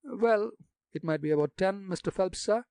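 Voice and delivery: put-on gossipy old gravedigger in broad country dialect. Jacques answers.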